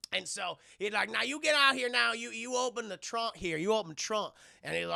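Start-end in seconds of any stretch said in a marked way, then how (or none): 1.1-4.4 bossy hillbilly robber voice; cowboy stranger. Acted. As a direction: order them about with a twang. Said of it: "this guy in a cowboy hat".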